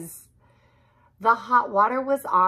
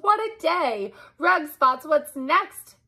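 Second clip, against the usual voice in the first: mild exasperation; 7 semitones higher than usual. A narrator's reading. Narrator exasperated.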